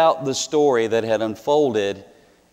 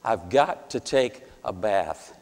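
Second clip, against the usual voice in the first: mumbling; 4 semitones lower, 5 dB quieter than usual. Retold or imitated. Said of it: "mumbling the words".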